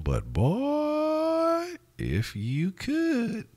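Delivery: very high, drawn-out falsetto; soaring high and long with longing; wishful exclamation. Real, not acted. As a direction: stretch it way up high, savoring the wish. Excited wishing, stretched into high falsetto.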